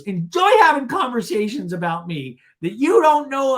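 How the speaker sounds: high, loud mock outrage; hammed-up parting shot; Shannon. Shannon trying to leave, mock indignant. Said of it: "And Shannon in this scene goes".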